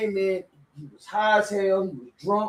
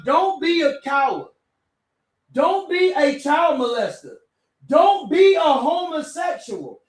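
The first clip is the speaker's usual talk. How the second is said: building, louder and higher to the end; stern scolding; 5 semitones higher, 3 dB louder than usual. Retold or imitated. The other brother scolds the visitor, rising louder. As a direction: scold harder with each line. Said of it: "the other one said".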